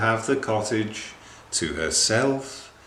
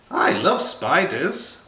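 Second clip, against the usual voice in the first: eager cry; 7 semitones higher, 3 dB louder than usual. Acted. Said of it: "cried the friendly witch".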